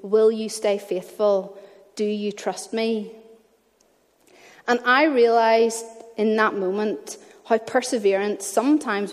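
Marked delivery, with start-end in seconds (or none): 0.0-3.1 gentle. Retold or imitated. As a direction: ask it tenderly like a patient father. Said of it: "I heard God very gently again saying".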